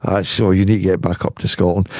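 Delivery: retold scolding. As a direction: lightly imitate a disapproving brother-in-law. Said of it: "my brother-in-law used to say".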